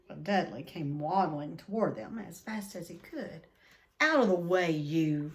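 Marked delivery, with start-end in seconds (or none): 4.0-5.3 loud, pushy bark; bully shoving someone aside; rough shove. A narrator's reading. Dudley pushing Harry away, loud and rough.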